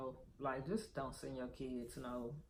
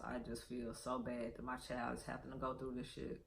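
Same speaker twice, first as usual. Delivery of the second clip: softer, fighting back tears; holding back tears; 9 dB quieter than usual. Real, not acted. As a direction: speak quietly while trying not to cry. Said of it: "I am trying not to cry".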